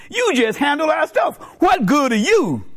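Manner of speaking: high, forceful put-down; comic scolding; mock scorn. Brain scornfully dismisses the rectum.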